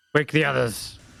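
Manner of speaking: loud shouted call. A character opens the door and calls to Thoob: shouting. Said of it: "shouts to Thoob".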